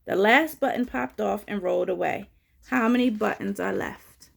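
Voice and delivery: picture-book read-aloud, key words punched; children's story reading. A narrator's reading. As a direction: read it out clearly for little listeners.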